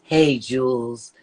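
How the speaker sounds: slow low whisper; slow hushed whisper calling her name. Pretend. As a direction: breathe it out slowly, no voice. Whispered greeting in spooky bit.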